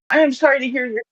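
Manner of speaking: choppy, glitchy call audio; breaking-up connection. Real, not acted. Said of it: "your audio is breaking up".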